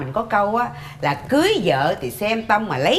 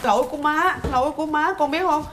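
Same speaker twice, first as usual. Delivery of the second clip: higher, whimpering mock apology; fake crying; 4 semitones higher than usual. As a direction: play the tearful martyr. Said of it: "má khóc vậy em". (giả khóc, rên rỉ nhận lỗi)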